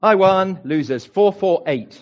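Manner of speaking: loud, high playful gloating; mock triumph. Preacher beats the congregation to the page, mock triumph. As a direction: crow over winning a silly race.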